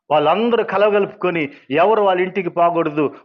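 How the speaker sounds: heated testimony of being shunned by the village; retold indignation. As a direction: raise the voice, recounting the injustice. Retelling villagers' shunning decree.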